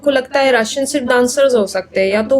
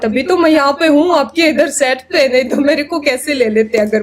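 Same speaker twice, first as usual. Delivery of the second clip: retold retort; faster than usual. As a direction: re-enact a pointed reply, rushing through it. Retells her retort to the director.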